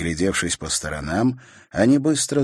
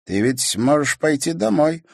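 ordinary delivery

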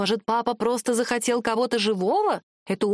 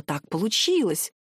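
helpless repetition; 3 semitones lower than usual. A narrator's reading. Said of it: "беспомощно повторяет папа".

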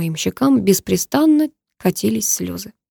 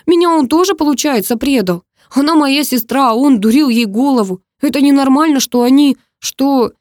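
much higher, louder outraged outburst; 6 semitones higher, 5 dB louder than usual. A narrator's reading. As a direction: burst out, feeling betrayed.

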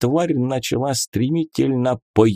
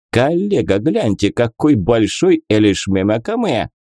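put-on Central Asian accent. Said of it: "Ravshan character".

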